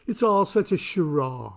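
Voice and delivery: posh British accent. Shown as a demonstration. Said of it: "draw the word charade with an affected, proper, posh British accent".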